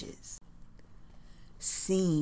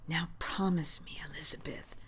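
soft, breathy whispered plea, much softer; 5 dB quieter, faster than usual. Acted. Hal begging his wife for a promise, whispered. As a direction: hush it close to her ear. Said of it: "as Hal whispers".

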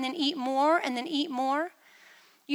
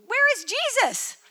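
bewildered; 9 semitones higher, 8 dB louder than usual. Retold or imitated. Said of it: "So I'm thinking".

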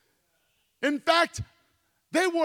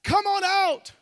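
higher, loud call into the furnace; king crying out; 7 semitones higher, 6 dB louder than usual. Retold or imitated. The king calls the three Hebrews out of the furnace, in a loud cry. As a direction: call the men out of the fire. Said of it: "And he cries out".

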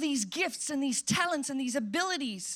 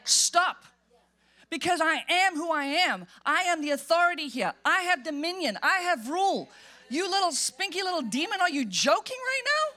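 loud, raised rebuke of a demon; commanding authority; 2 semitones higher, 3 dB louder than usual. Retold or imitated. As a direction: take dominion and order it out. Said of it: "you would say".

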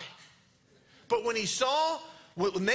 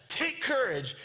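higher-pitched, projected call; mild mock shout; 5 semitones higher than usual. Jesus calling to frightened disciples, mildly shouted. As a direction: call it out firmly, short of yelling. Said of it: "shouts that".

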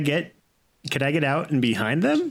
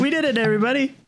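triumphant hero; 11 semitones higher, faster than usual. Acted. Triumphant in-character cheer.

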